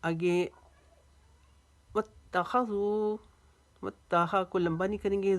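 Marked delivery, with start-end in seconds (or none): 1.9-3.2 वत्तखज़ू with ज़ू stretched; long ज़ू. Shown as a demonstration. Teacher showing wav madd, वत्तखज़ू with a long ending. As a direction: hold the final oo of वत्तखज़ू. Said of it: "जू को लंबा करेंगे".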